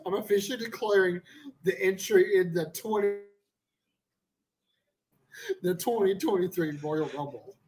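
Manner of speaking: wrestling promo. Acted. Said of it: "his fifth promo of the show".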